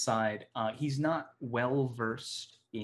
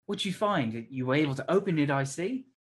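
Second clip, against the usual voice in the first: higher, louder professor, apologetic then prying; sheepish Tucker; 6 semitones higher, 5 dB louder than usual. Acted. Professor Tucker admitting ignorance to the students, higher and louder. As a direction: dismiss it, then pry eagerly. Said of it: "He's like".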